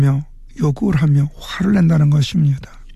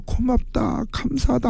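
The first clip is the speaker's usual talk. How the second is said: 높고 여리게 북받친 목소리; 목이 메도록 벅차게 감사하는 엄마; 6 semitones higher, 5 dB quieter than usual. Retold or imitated. 아들 소식에 감격한 엄마. (감격에 북받쳐 높고 여리게)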